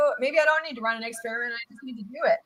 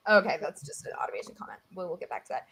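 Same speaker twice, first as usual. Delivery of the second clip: quiet aside; 7 semitones lower, 9 dB quieter, faster than usual. Real, not acted. Aside about an automation comment.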